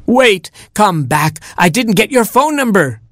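high-pitched, urgent call; crying out. A narrator's reading. Prince calls after fleeing Cinder Elephant, crying out high. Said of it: "cried the prince".

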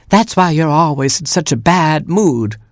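high, scolding mother hen; high fussy hen voice; clucking hen. A narrator's reading. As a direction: cluck it as a reproach. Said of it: "clucked Mama Hen".

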